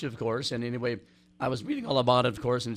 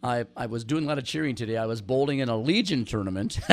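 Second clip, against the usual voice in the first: raspy voice; 2 semitones lower than usual. Real, not acted. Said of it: "if I have a little raspy voice".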